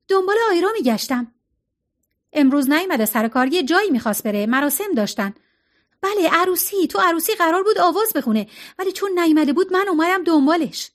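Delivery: put-on nervous young woman. Maggie voiced talking to Sam.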